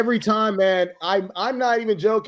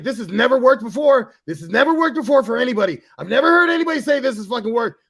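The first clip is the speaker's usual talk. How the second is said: mock exasperated protest; 3 semitones higher, 4 dB louder, faster than usual. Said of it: "He's like".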